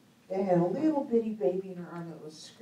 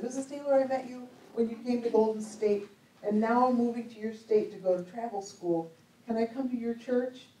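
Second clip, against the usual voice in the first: put-on young lady's message; 4 semitones higher than usual. Voicing young lady's Facebook message.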